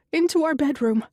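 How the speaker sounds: high, loud urgent order; demanding. A narrator's reading. Connie pushing the children inside, demanding. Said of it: "Connie demands".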